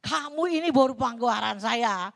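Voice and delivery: tender declaration. Retold or imitated. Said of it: "Susan tanya".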